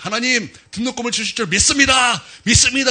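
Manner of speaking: fervent prayer. Retold or imitated. Student prays up front for tuition, fervently. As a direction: pray it loud so the pastor overhears. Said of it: "요 앞에서 이제 기도를 하는 거예요".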